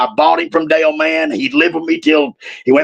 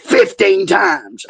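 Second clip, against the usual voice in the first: drawn-out stress on Fifteen; slow retold emphasis; 3 semitones higher, much slower than usual. Daughter telling her dad his arrest count, slow and stressed. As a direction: stretch out "Fifteen times" very slowly. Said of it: "She said".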